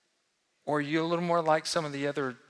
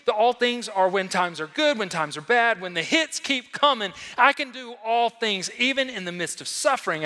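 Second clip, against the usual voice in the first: ordinary delivery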